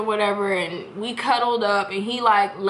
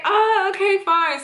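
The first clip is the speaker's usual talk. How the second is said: reluctant giving in; 8 semitones higher than usual. Retold or imitated.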